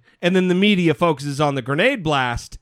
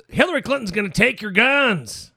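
lightly voiced Donald Trump; 6 semitones higher than usual. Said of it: "I don't know why I'm talking like that".

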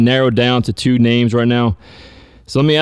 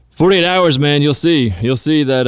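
mock confident boast; 4 semitones higher, slower than usual. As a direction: hype it up like a bold call. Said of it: "when you said on, uh, Wednesday's show".

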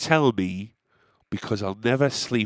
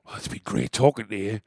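sarcastic; 3 semitones lower, 4 dB quieter than usual. Retold or imitated.

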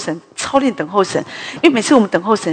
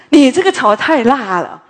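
a touch louder, lightly voiced pastor griping; mock protest that it's too spicy; mild complaint; 4 semitones higher, 6 dB louder than usual. Pastor complaining to his wife that dinner is too spicy, mild griping.

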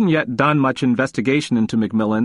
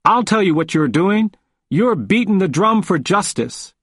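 put-on old man proclaiming it, voice raised high; loud declaration; 7 semitones higher than usual. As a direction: cut him off, much higher and louder. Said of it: "He cut me off and said loudly".

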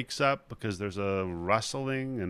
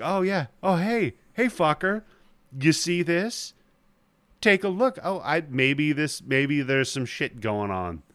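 smug gloating; 4 semitones higher than usual. Retold or imitated. Carla gloats at the doubters.

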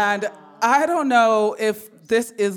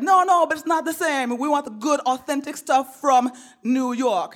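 higher mock mom, insistent; voicing mom; 6 semitones higher than usual. Mom insisting on authentic New York food, higher mock mom. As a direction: push it up high like mom.

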